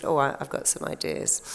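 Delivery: a shy, knowing whisper of a secret; coy whisper. Retold or imitated. Client telling the therapist her ideas, in a coy whisper. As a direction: breathe it out like a naughty confession. Client quoted answering coyly.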